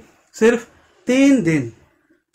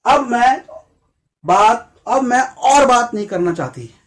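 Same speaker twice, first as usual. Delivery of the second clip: put-on a touch higher, louder girl's fed-up line; girl refusing; 3 semitones higher, 3 dB louder than usual. Girl on a date refusing to talk more, mildly fed up. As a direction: play the girl ending the date, annoyed. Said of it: "लड़की ने क्या बोला".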